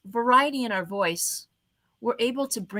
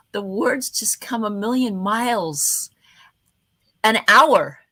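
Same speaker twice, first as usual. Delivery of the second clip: excited rush; 5 dB louder, slower than usual. Shown as a demonstration. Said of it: "when I get excited".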